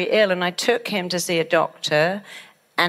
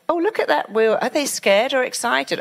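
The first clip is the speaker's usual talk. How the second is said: animated onlooker; 5 semitones higher than usual. Retold or imitated. Imagined onlooker at a fun fair.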